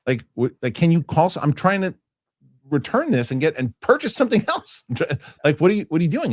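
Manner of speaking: mildly indignant retold questioning, pitch climbing; exasperated challenge. Acting out wife challenging the store worker, exasperated. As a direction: press the point in mock exasperation.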